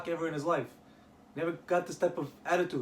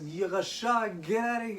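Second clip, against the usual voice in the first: raised-pitch mock yell; retold screaming; 5 semitones higher than usual. Rabbi David throwing out the latecomer, mock screaming. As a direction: act out a mild shouted rebuke. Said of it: "He starts screaming at him".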